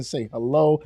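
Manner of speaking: usual speaking voice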